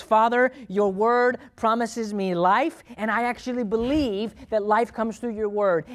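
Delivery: sincere spoken prayer; earnest prayer. Retold or imitated. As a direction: pray it out sincerely, as if by the fire. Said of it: "you say something like this".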